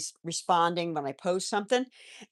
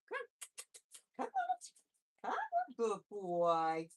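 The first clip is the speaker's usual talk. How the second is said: coaxing pet voice; 3 semitones higher, 8 dB quieter, much slower than usual. Real, not acted. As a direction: lure the bunny gently with a squeaky call. Coaxing the bunny over.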